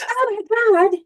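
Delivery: high, loud burst of surprise; sudden realization. Retold or imitated. Realizing mid-thought, a loud high startled cry. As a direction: gasp it out as it dawns on you. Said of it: "you're like".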